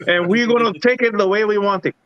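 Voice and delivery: mock French-Spanish accent, defiant. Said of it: "That's my French Spanish accent".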